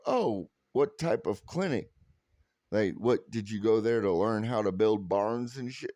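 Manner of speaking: a sly teasing jab about the clinic; half-mocking joke question to the couple; cheeky teasing. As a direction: poke fun at them lightly, playing it as a gag. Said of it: "And I go".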